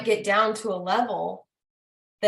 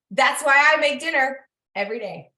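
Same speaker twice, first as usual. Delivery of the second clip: laughing; 5 semitones higher, 6 dB louder than usual. Real, not acted. To her audience, laughing as she repeats her dinner line. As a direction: repeat it through a real laugh, louder.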